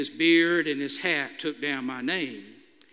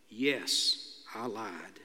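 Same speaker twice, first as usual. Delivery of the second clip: much softer, lower admission; soft confession; 8 semitones lower, 8 dB quieter, much slower than usual. A narrator's reading. To the Amish host before the silent lobby, softly lower. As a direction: confess it quietly, ashamed. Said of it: "I replied softly".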